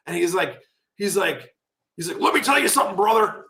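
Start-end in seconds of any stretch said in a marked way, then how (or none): 2.2-3.5 higher, lightly hammed wrestling promo voice; a hint of a Hulk promo; Hulk Hogan promo. Hulk Hogan cutting a promo on the phone, light impression. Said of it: "literally cut a promo on me".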